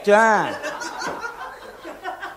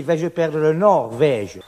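sinking doubt; 6 semitones lower, slower than usual. Acted. Inner doubt.

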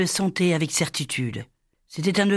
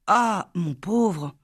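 slow, pitying ah, mon pauvre; pitying sigh; 4 semitones higher, much slower than usual. A narrator's reading. Sister pitying her heartbroken brother, slow and tender. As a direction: draw it out with pity.

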